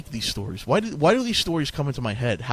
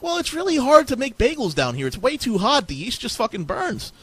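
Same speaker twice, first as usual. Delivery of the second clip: Satan voice; 9 semitones higher than usual. Acted. Satan explains hell's heat.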